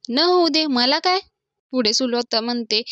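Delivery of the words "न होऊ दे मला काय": higher-pitched back-talk; defiant retort. Acted. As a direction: throw it back at mother, voice raised a little. नमी आईला उलट उत्तर देते. (चढ्या आवाजात उद्धट उत्तर)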